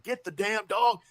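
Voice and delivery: high, loud snap; retold yell. Retelling yelling at the kid about his dog. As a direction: bark it as a mock command. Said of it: "So I said".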